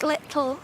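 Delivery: LITTLE with a closed-mouth, mid-tongue T; mid-tongue T demo. Shown as a demonstration. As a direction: show little with the tongue meeting the roof of the mouth. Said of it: "like that kind of".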